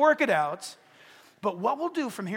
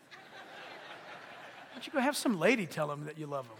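laughing protest; 4 semitones lower, 3 dB quieter than usual. Retold or imitated. Bargaining with God, laughing.

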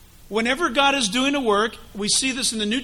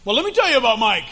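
gossiping accuser; 4 semitones higher, 6 dB louder than usual. Acted. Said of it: "he's up there talking to God".

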